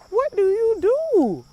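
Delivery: high, drawn-out dramatic wail; exasperated plea. Acted. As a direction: stretch the question out high and helpless. Voices the helpless dilemma.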